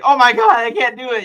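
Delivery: high, loud mock-panicked whine; Zenitsu. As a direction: cry out like a comic crybaby. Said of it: "then Zenitsu's like".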